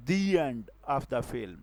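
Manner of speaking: very slow, word by word; slow example read. Shown as a demonstration. Teacher reads an example sentence to the class, very slow. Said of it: "इसको example से हम समझते हैं".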